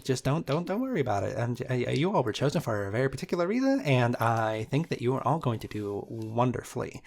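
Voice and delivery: a lightly voiced, hurried bunny; reassuring but rushing through it; Easter Bunny. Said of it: "the Easter Bunny says".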